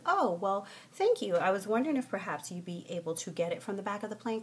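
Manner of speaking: sweetly over-polite request; mannerly, careful politeness; very nice, polite. Acted. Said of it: "I said it very nicely".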